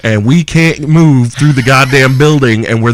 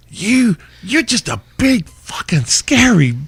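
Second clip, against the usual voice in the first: laughing British voice; 11 semitones higher, slower than usual. Retold or imitated. Benji quoted, laughing.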